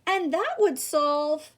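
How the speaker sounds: slow, drawn-out half-thought; lightly voiced drowsy pondering; sleepy musing Earl. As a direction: trail off mid-idea. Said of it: "Earl thought some more".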